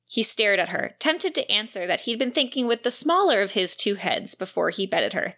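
lively excerpt reading, dialogue lightly voiced; book narration. Podcaster reads a marriage argument from the novel, lively narration. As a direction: read the scene aloud like an audiobook.

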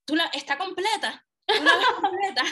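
high, laughing, relieved question; tearful-happy laugh, pitched high; laughing relief. Retold or imitated. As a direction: laugh through it, giddy with relief. Relieved mother laughing while asking.

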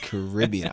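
Caribbean stressed on the second syllable, "kuh-RIB-ee-un"; Jamaican pronunciation. Shown as a demonstration. Guest settles the pronunciation debate with host, Caribbean as "kuh-RIB-ee-un". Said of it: "the proper way to say Caribbean".

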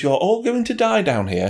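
high, mock little-girl voice; preteen girl impression. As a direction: imitate a creepy child in a high pitch. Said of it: "she talks like this".

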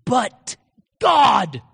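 loud, broken by a weighty pause; emphatic declaration. Acted. David answering his troubles with faith, emphatic declaration. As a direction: land each word hard. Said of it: "What was he saying?".

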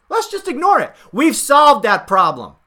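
mocking the campaign's dismissal, sarcastic and smug. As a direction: parrot the campaign with sneering sarcasm.

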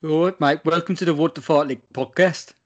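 attempted Brummie greeting; Brummie accent. Shown as a demonstration. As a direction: put on a Birmingham accent.

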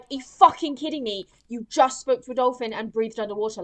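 viewer's mock outrage at the heroine; exasperated viewer. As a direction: react in disbelief. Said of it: "you're like".

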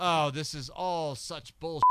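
mock Australian sneer at the music scene; Australian accent. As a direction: a singer's Australian accent, done badly. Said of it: "Can't do an Australian accent".

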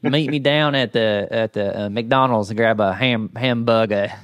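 put-on Southern US accent, halting; Tennessee accent. Shown as a demonstration. Trying out a sample line, mock Tennessee accent. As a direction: have a stumbling go at a Tennessee accent. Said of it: "Tennessee accent".

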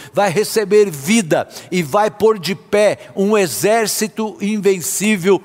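forceful, declarative sermon delivery; emphatic preaching. Real, not acted. Preacher urging believers to speak to their fears, emphatic preaching. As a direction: preach it with conviction, phrase by phrase.

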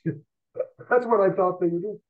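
slow words through a real laugh; amused, laughing at himself. Real, not acted. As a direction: chuckle as you admit it. Laughs at his own mistake.

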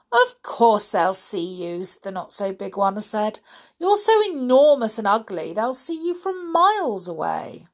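a hint of a prim, disapproving croc; lightly voiced smaller crocodile. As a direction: scold mildly, slowing on tough and chewy. Story figure voice.

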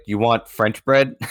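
slow, spelled-out question as a French seller; slow mock clarification. French seller to a fumbling American customer, slow question. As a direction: draw it out for a struggling foreigner. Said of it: "she was like".

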